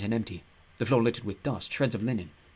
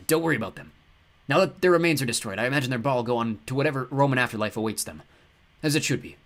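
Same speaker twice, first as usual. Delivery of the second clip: cheerful god voice; 2 semitones higher, 3 dB louder than usual. Acted. Ptah speaks.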